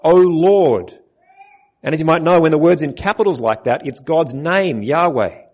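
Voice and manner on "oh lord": calling out to God. Retold or imitated. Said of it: "He calls out".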